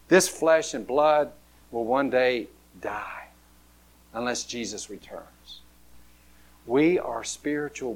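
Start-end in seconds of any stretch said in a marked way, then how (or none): 1.7-5.6 hushed whisper. Real, not acted. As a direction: whisper it to the congregation. Sermon hushed emphasis.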